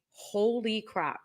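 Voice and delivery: hushed, drawn-out disbelief; quietly awestruck reaction; stunned. Retold or imitated. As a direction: say it slowly and softly, as if floored. Retold stunned reaction after episode.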